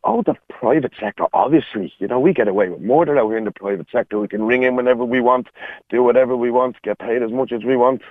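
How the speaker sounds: mildly sarcastic mock agreement. Real, not acted. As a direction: lay on the sarcasm, as if it were obvious. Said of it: "sorry, you're being sarcastic".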